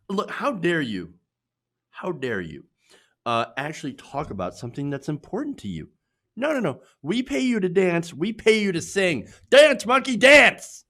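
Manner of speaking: high, loud sneering tirade building to a yell; mock entitled outrage. Mocking fans who want him to just perform, building yell. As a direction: ham up a spoiled fan's demand.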